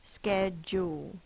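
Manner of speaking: Schedule stretched slowly as sked-jool, ending on a rise; slow sounded-out word. Shown as a demonstration. Teacher to pupils, slowly sounding out Schedule. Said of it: "This has the j because of articulation".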